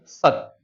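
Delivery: 'सत' ending dead on the त, no vowel after it; soft 'सत', tongue stops at the teeth and goes silent; 'सत' with the final त cut off, no अ; halant demo. Shown as a demonstration. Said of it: "मैं आपको बोल के दिखा देता हूं".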